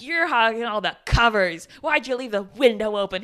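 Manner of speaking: husband grumbles at his wife, annoyed; annoyed complaint. Retold or imitated. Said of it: "He's, like, so mad at her".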